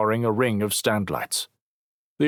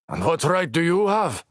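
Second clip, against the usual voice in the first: challenging; 10 semitones higher, 3 dB louder than usual. Acted. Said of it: "Logan challenged".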